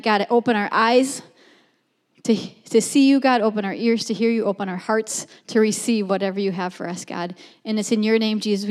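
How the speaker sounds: earnest spoken prayer to God. Acted. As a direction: pray aloud for the whole room. Leads the opening prayer.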